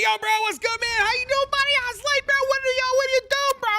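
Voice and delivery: bro voice. Retold or imitated. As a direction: gush like an overfriendly gamer bro. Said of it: "He's like".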